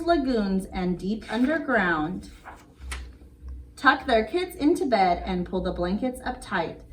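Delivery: put-on sing-song read-aloud rhythm for kids; bedtime story reading. Reading a bedtime rhyme to little kids, gentle sing-song.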